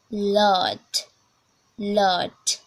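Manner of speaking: American "lot", open vowel; demonstrated American "lot"; American accent. Shown as a demonstration. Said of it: "American, American accent".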